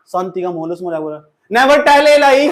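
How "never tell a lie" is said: higher, louder stiff rote chant; feelingless recitation. Shown as a demonstration. Teacher mocking a student reciting English with no feeling, loud rote chant. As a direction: bark it out with no feeling at all. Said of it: "feeling ही नहीं आ रही".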